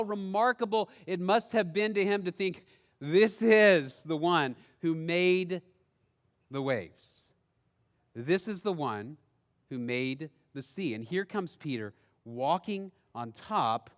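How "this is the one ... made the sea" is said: awed. Acted. Peter awed at Jesus.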